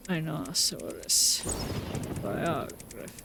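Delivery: low, subdued word-list voice; softened recital, word by word; put-on reading voice. Real, not acted. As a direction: recite single words in an odd, sinking put-on voice. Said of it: "I don't know why I'm using this voice".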